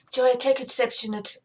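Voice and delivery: tentative German-accented English. Shown as a demonstration. Tall one objecting to Joy, attempted German accent. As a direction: try a German accent, slightly unsure. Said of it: "My German accent isn't coming out".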